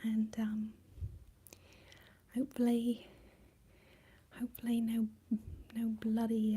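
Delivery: badly faked British ASMR voice; British ASMR accent. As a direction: put on a comedy British accent in a hushed voice. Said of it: "We're British A S M R now".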